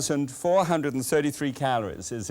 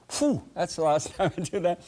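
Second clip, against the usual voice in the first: exhausted cook; 5 semitones higher than usual. Retold or imitated. Exhausted cook after a party.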